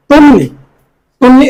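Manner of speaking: তন্নি with a held double n; doubled n. Shown as a demonstration. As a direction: say তন্নি as "ton-ni". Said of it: "ন দুবার উচ্চারণ হবে". (তন্নিতে ন দুবার উচ্চারণ)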